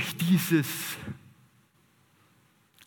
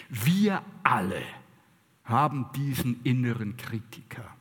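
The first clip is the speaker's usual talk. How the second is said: whisper; 4 semitones lower than usual. Real, not acted. Confiding to the audience.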